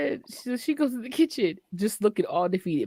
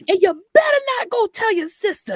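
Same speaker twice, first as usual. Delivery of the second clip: higher, louder mock warning; mock mom warning; 11 semitones higher, 6 dB louder than usual. Mom warning her child not to tell the sister, voiced higher. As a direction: wag a finger as mom.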